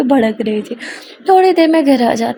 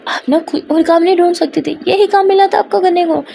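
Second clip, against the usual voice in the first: higher-pitched annoyed reproach; mildly flaring up; 6 semitones higher than usual. Acted. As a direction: scold a partner with a touch of temper. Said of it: "क्यों इतना भड़क रहे हो".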